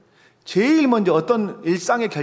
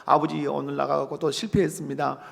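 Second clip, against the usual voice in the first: mock sorry child; 3 semitones lower, 4 dB quieter than usual. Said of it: "또 내일 와가지고".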